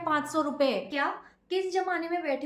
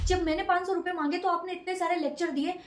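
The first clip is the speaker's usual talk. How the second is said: higher-pitched aggrieved complaint to mom; upset outburst; 4 semitones higher, 3 dB louder than usual. Acted. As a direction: protest hotly that the maid got money first. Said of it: "इतना भड़क क्यों रही हो?". (नाराज़ बेटी, ऊँची आवाज़ में शिकायत)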